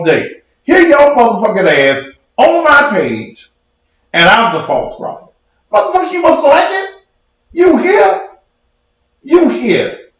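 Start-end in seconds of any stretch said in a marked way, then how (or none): 5.7-10.1 high angry yell. Real, not acted. Angry rant at a commenter.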